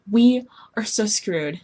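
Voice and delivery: slow whispered we are so screwed; hushed doomed whisper; despairing whisper. Acted. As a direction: breathe it out in defeat. Despairing over curse and luck.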